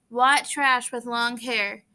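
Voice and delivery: drawn out, slow insult; slow contemptuous sneer. Acted. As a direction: spit out slowly with contempt. Bob insulting slowly.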